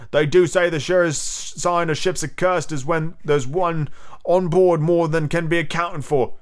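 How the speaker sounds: slow, high pirate voice; ominous crewman telling an omen, unhurried; superstitious pirate. A narrator's reading. Cookson warning of a cursed ship, slow foreboding.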